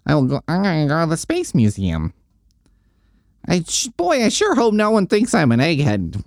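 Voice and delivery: put-on high, nerdy teen voice, talking himself into it; a hammed-up awkward nerd boy voice; mock nerdy Peter. Teen Peter to himself, hoping nobody thinks he's an egghead, high mock nerd voice.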